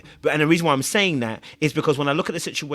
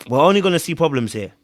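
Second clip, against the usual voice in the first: firmer retold verdict; 4 dB louder than usual. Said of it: "I looked at her and I said".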